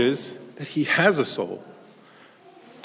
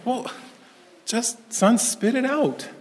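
urging dad; 9 semitones higher, slower than usual. Retold or imitated. Dad urging crying boy.

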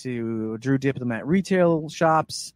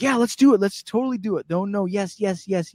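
eager agreement; 5 semitones higher than usual. Retold or imitated. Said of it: "so Jack's like".

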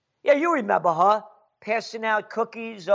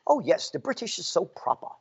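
sarcastic mock; 4 dB quieter, faster than usual. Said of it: "Talk like the British do".

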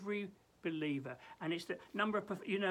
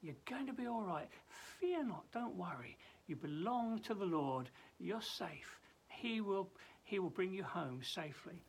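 gentle reassurance; 4 dB quieter than usual. Acted. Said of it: "pauses towards the end to, to reassure the saints".

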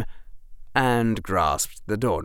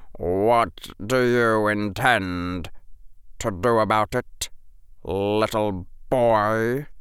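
mocking teacher; slower than usual. A narrator's reading. Severus mocks Harry.

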